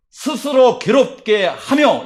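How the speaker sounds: "스스로 괴롭게 하며" read very slowly, each syllable spaced, falling on "하며"; slow deliberate reading. Shown as a demonstration. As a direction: draw out "스스로 괴롭게 하며" word by word, landing on "하며". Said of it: "이렇게 해놨어요".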